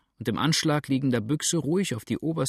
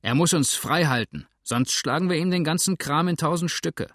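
rowdy shout; 6 semitones higher, 4 dB louder than usual. Acted. Drunken mob threatens innkeeper.

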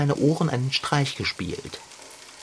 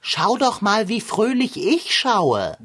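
deadpan ironic echo of her words, slower at the end; sarcastic mock cheer; 2 semitones higher, slower than usual. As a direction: parrot her line back with dry sarcasm. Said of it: "Du schaust doch gar nicht fröhlich". (trocken-ironisches Nachäffen)

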